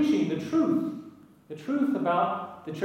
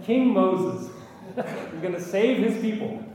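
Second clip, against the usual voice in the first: chuckling; 2 semitones higher, slower than usual. Real, not acted. Joking about the name, laughing.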